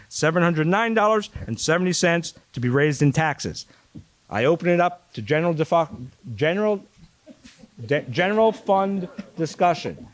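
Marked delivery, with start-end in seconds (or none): 4.3-10.1 talking around a retainer; slightly slurred with a retainer in; wearing a retainer. Real, not acted. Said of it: "I have a retainer in my mouth".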